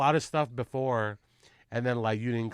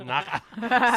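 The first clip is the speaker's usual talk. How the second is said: sing-song Filipino accent; 9 semitones higher, 5 dB louder than usual. Shown as a demonstration. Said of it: "sing everything like this".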